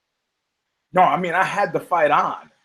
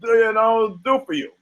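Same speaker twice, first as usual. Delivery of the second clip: mock bartender; 5 semitones higher than usual. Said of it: "Bar guy goes up and goes".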